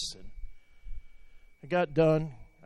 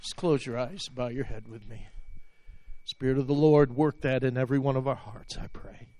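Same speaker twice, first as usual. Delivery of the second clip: closing prayer. Real, not acted. Pastor praying for the congregation and online viewers, fervent prayer. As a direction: pray over the people with fervent conviction.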